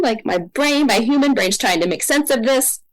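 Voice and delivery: usual speaking voice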